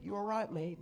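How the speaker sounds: mock British reserve. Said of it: "they hold their feelings inside".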